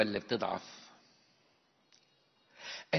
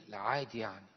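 bored shrug; 4 semitones lower, 3 dB quieter than usual. Retold or imitated. Indifferent husband answers.

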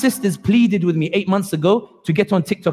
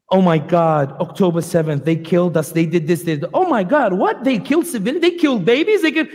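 imitating an Israeli; 2 semitones lower than usual. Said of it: "And I'll try to imitate it here".

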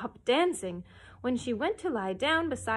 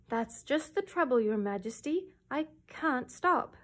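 piteous plea; 3 semitones higher than usual. Acted. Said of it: "said the red cow piteously".

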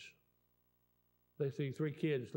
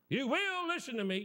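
high, emphatic imitation of a demanding parent; hammed-up order, leaning hard on "will"; mock parental command; 11 semitones higher, 4 dB louder than usual. Parent demanding that a daughter obey, acted sternness.

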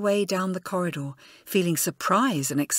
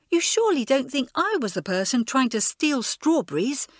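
higher, shocked protest; gasped; 6 semitones higher, 3 dB louder than usual. A narrator's reading. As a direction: gasp it out in disbelief. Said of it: "gasped Elizabeth".

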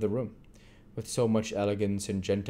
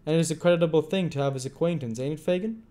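Tom voice; 8 semitones higher, 4 dB louder, faster than usual. A narrator's reading.

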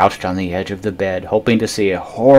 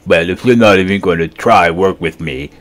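whining. Acted. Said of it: "Mac whined".

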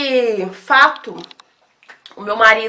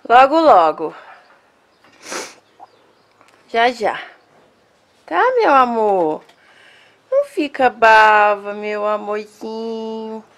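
reassuring pet talk. Real, not acted. Reassuring the dog softly.

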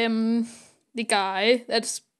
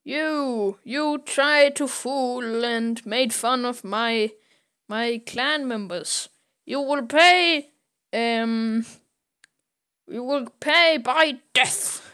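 angry threat; 2 semitones higher, slower than usual. Retold or imitated. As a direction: threaten him slowly with menace. Angry captor threatens Tintin.

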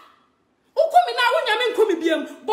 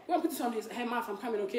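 calling from afar; 11 semitones lower, 13 dB quieter, faster than usual. Real, not acted. Calls to child off-mic.

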